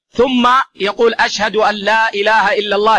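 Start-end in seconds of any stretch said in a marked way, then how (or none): 1.1-3.0 half-sung stretched phrase. Shown as a demonstration. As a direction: lightly stretch the voice as in the adhan. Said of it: "يمد بها صوته".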